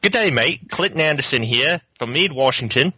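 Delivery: put-on jokey Aussie greeting in an Australian accent; a hint of an Australian accent, played for laughs. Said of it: "You do an Australian accent".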